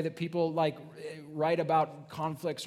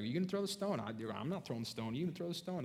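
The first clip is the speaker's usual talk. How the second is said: softer, hushed back-and-forth; hushed nervous muttering; 4 semitones lower, 9 dB quieter, faster than usual. Retold or imitated. Accusers nudging each other to throw, in hushed voices. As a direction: mutter it like you don't want to be heard.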